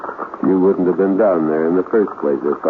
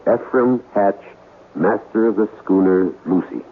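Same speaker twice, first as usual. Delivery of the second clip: solemn reading. Acted. Reading out a curse note.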